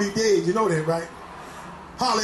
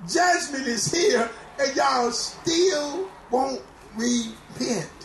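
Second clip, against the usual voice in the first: God's voice; 3 semitones higher, much slower than usual. Pretend. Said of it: "God said".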